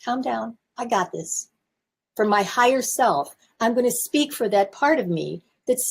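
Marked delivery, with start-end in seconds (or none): 0.0-1.5 calming inner voice. Shown as a demonstration. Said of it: "You tell that angry part".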